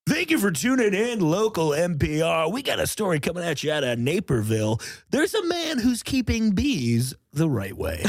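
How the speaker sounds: upbeat radio host voice; morning DJ voice. Acted. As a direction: read it like a chipper DJ. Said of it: "Morning D J voice".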